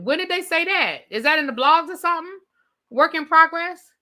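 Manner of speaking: high-pitched, puzzled questioning; taken aback, voice lifted; surprised. Real, not acted. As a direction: ask as if the news passed you by. Hears gossip she had missed.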